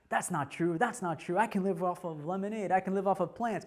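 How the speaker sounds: defiant retort. Retold or imitated. Acting out his defiant reaction.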